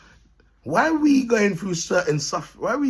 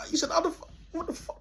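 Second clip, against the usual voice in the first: imitated shock; 12 semitones higher, 10 dB quieter than usual.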